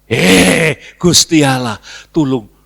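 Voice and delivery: loud mock plea to God; seruan minta tolong. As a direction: cry out for help, starting loud. Acted cry to God for help. (seruan lantang minta tolong)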